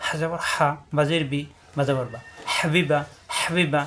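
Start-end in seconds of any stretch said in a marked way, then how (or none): 2.5-3.8 হাবিবা with হা squeezed from mid-throat; pressed throaty H. Shown as a demonstration. Teacher models the word, হাবিবা with a pressed H. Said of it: "হা চাপ দিয়ে".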